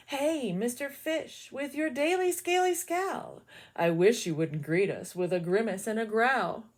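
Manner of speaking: lightly voiced jellyfish nudging the fish; gentle jellyfish.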